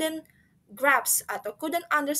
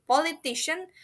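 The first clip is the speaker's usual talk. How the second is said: "Politician" with the middle stressed, higher; stress on middle syllable; 4 semitones higher than usual. Shown as a demonstration. Teacher corrects herself, "Politician" stressed in the middle. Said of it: "emphasis in the middle of the word".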